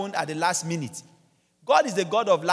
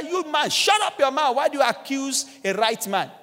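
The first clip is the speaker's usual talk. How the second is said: higher, indignant mock scolding; retold rebuke; 5 semitones higher than usual. One crucified thief scolding the other, indignant retold rebuke.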